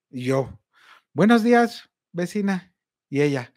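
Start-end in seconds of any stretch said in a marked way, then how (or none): 1.1-2.7 awkwardly cheerful hello to the neighbor; overly bright greeting. Retold or imitated.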